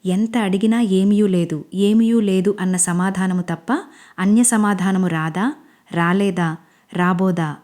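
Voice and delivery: lightly hammed-up stage hero demanding an answer; mock-grand questions, drawn out; dramatic stage dialogue. Manish pressing silent Anjali in mild mock stage voice. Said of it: "నాటకీయ డైలాగులు".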